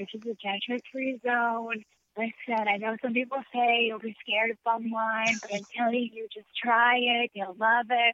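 calm, soft, reassuring and soothing voice. Speaker imitating the person they're talking with, wine motivational speaker voice. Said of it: "You sound like a wine motivational speaker".

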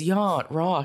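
funny put-on radio DJ voice. Imitating the radio DJ's announcement: Thurston Howell voice. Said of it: "the D J goes".

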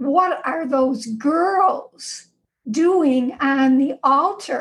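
slow, gruff, challenging tone. Speaker recalls a church moment interrupted by a Monsignor: retelling a gruff voice. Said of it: "I hear this gruff voice".

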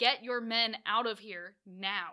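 loud, acted-out put-on voice. Retelling how a voice woke a sleeping man: retelling a loud warning voice. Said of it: "the whisper is no longer a whisper".

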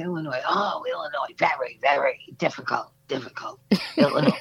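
mimicked rough, unconfident voice. Retelling a phone call with a man about an adoption search; imitating a rough voice. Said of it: "this really rough, not at all inspiring confidence voice".

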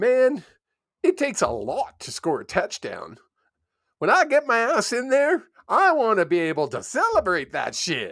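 bad drawl, high and swooping, laid on clumsily. Quoting what Arlan told them about scoring, in a bad Arlan drawl impression. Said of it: "Terrible accent".

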